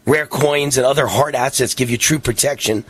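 announcer-style commercial read. Acted. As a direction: sell it like a live radio ad. Radio host reads sponsor ad.

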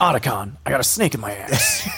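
lightly voiced parody action hero; a hint of spoof radio-call soldier; Solid Snake. Host riffing on the parody series, light Solid Snake impression. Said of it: "sound like the impersonation of Solid Snake".

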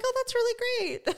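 high, squeaky reply breaking into laughter; mock enthusiasm, laughing. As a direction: chirp it awkwardly through giggles. Retold awkward reply, laughing.

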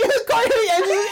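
words broken by crying laughter; laughing and wheezing. Real, not acted. Retelling the car hitting Angie, crying with laughter. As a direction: laugh till it nearly hurts.

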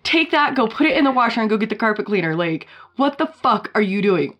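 lightly voiced angry husband; mock scolding husband. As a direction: scold her like a disgusted husband. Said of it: "And he's like".

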